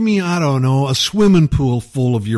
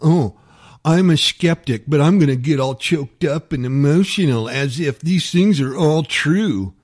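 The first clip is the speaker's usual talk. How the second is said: mocking impression. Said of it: "act like you".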